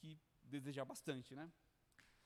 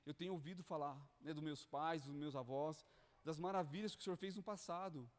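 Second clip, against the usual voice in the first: mild pleading prayer. Retold or imitated. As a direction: plead with God, lightly acted. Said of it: "começa a clamar".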